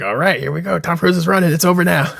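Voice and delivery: hammed-up excited Tom Cruise bit; mock action hero. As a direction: pump it up like an action star.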